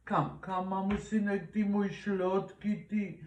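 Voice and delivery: cooing to the cat. Real, not acted. (czułe gruchanie do kota)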